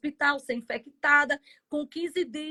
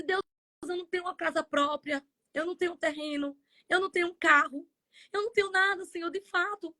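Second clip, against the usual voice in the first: tearful plea; 4 semitones higher, faster than usual. Retold or imitated. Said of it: "Eu disse".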